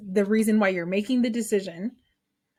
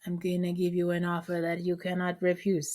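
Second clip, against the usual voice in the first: badly faked Italian mobster voice; Italian mobster accent. Teacher making students an offer in a poor Italian mobster accent. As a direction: try a hammy Italian mafia boss accent. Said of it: "In a, in an Italian mobster accent".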